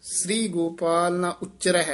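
brief halt after ਉਚਰਹਿ before ਬਲ ਗਈਏ; pause after ਉਚਰਹਿ. Shown as a demonstration. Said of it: "ਇੱਥੇ ਠਮਕ".

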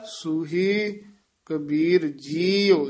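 ਜੀਓ said with a closed oo sound, not an open ਊੜਾ; careful ਜੀਓ with the vowel kept closed; correct Gurbani pronunciation. Shown as a demonstration. Teacher correcting a student's reading, careful pronunciation. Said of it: "ਜੀਓ ਊੜਾ ਖੁੱਲੇ ਮੂੰਹ ਵਾਲਾ ਨਹੀਂ".

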